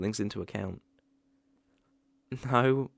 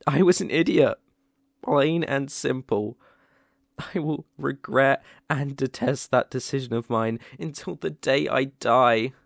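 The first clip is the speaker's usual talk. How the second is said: emotional outpouring; 5 dB louder than usual. Acted. Confessing to his ex after a kiss, overwhelmed and loud. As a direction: pour out the regret, near tears.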